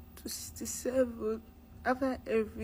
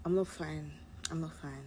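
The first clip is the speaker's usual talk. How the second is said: each I'm not fine softer than the last; fading despair; 3 semitones lower, 5 dB quieter than usual. Real, not acted. Student admitting the hurt over her score, fading to nothing. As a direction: let it die away into tears. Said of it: "I was acting like I was fine".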